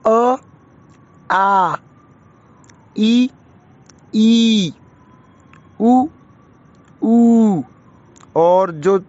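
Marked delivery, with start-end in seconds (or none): 0.1-7.6 short vowel then long vowel, each drawn out; vowel pairs demo. Shown as a demonstration. Teacher reciting vowel pairs to pupils, long ones stretched. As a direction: say each pair, the second held twice as long. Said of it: "इसको पूरा बोल के देखें".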